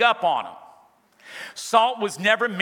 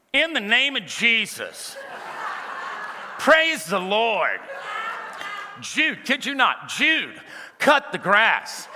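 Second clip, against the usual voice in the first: slow, drawn-out praise-the-Lord voice; mock churchy mama; 4 semitones higher, slower than usual. Preacher reading mama's note to Jude in a slow, drawn-out churchy voice. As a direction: ham up a devout mama's note. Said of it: "So she wrote me a big note".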